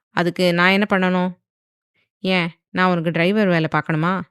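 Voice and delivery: mocking. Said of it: "என்று நக்கலாக கேட்டான்".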